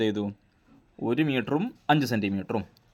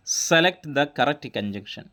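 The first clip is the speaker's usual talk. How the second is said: every word stretched out slowly; slow classroom reading of a question; very slow dictation; much slower than usual. Shown as a demonstration. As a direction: read the question at dictation pace. Teacher reading out quiz question.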